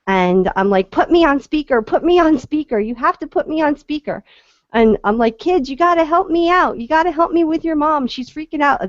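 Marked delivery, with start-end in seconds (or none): 0.9-4.2 pitched higher and insistent, pressing to be heard; urgent plea. Retold or imitated. To a panicking woman on the phone, urgent higher insistence. 5.4-8.9 put-on high, bright rallying call to children; rally the kids like a cheerful team captain; coaxing the kids. To the kids in the back seat, high cheery coaxing.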